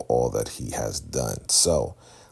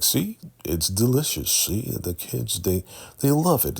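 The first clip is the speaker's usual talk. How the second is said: mock cheerful leader; 9 semitones higher than usual. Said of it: "he's like".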